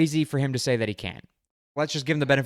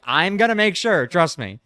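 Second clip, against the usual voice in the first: exasperated reply; 6 semitones higher, 8 dB louder than usual. Retold or imitated. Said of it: "I'm like".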